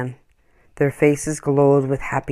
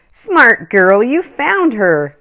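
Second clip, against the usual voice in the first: lightly voiced boy, higher, pleased; boy's voice; 8 semitones higher, 8 dB louder, slower than usual. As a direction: praise the lamb in a young boy's voice. Boy praises his found lamb.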